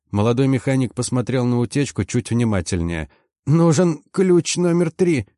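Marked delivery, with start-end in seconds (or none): 3.4-5.3 put-on high, slow, squeaky young mechanic; thin squeak. A narrator's reading. Frightened young mechanic asks for a wrench, high squeak. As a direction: pipe it up in a thin, breaking little voice. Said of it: "пропищал он тонким, срывающимся голоском".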